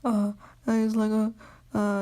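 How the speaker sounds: high-pitched mock whimper; imitated crying. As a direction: wail "uh" up high like someone crying. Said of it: "Naruto comes out crying".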